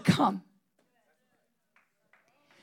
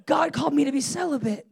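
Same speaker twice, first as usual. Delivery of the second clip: mock solemn laughing; 5 dB louder than usual. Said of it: "I'm like".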